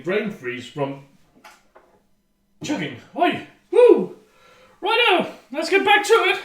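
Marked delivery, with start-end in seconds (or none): 3.2-6.4 high, pumped-up whoop; buzzing and energized after the chug; excited. Real, not acted. Hyped up after chugging beer.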